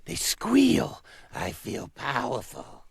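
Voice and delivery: high, excited goose voice; a dim, eager goose. Acted. Goose character.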